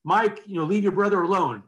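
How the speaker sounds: parent calling from downstairs. Retold or imitated. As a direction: call up a mild scolding to a child. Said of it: "I'd hear a voice from that, you know, downstairs".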